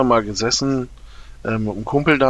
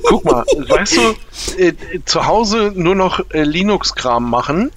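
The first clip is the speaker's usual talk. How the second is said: laughing; 7 semitones higher than usual. Real, not acted. Laughing while listing own contradictions.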